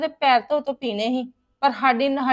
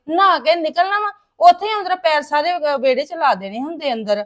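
exasperated rant; 2 semitones higher, 6 dB louder than usual. Acted. Daughter ranting about in-laws' mess. (ਖਿਝ ਕੇ ਉੱਚੀ ਸ਼ਿਕਾਇਤ)

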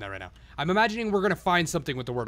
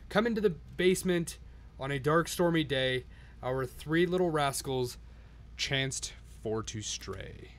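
1 storybook reading; slower than usual. A narrator's reading. Reads the storybook rhymes.

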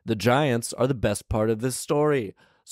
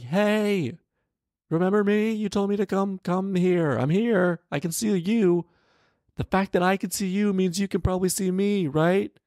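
high, bright mock lady voice, pitched way up; imitating the lady; 11 semitones higher than usual. Vlogger mocking the lady calling out to him, high pitched. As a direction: squeak it out like a pleading woman. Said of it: "She's like".

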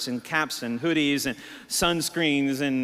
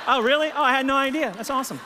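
mock surprise; 11 semitones higher, 5 dB louder than usual. Mock surprise at learning pastor.

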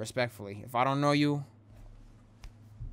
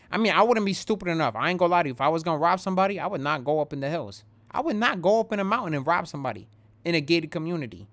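heated rant; 4 semitones higher, 5 dB louder, faster than usual. Real, not acted. Rant about the robbers.

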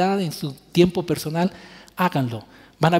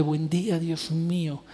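softer, tender morning prayer to God; intimate prayer; 4 dB quieter than usual. Shown as a demonstration. Preacher modelling a personal morning prayer for the congregation, soft and tender. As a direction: speak it gently, like greeting a close friend. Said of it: "póstrense delante del Señor y díganle".

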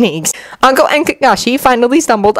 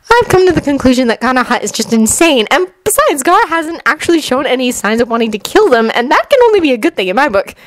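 higher-pitched matter-of-fact explanation; lightly voiced Temari; 6 semitones higher than usual. Temari justifies herself to her brother, slightly higher voice. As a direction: explain it as a settled conclusion.

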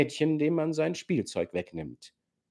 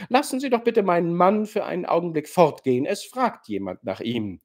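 eilig, bestimmt und lauter; laut bittend; 5 semitones higher than usual. Acted. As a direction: schnell dazwischen, um den Mann loszuwerden. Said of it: "sagte Nina Alexandrowna laut". (Nina bittet laut und eilig, den Mann gehen zu lassen)

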